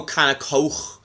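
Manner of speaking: "Coke" ending in a throaty rasp; overdone Scouse K. Shown as a demonstration. Showing how many people say "Coke", overdone Scouse K. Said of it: "A lot of people go".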